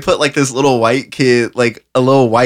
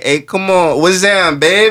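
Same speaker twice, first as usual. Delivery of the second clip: mock New Orleans accent; 5 semitones higher than usual. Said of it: "a rapper to drop a song where he like".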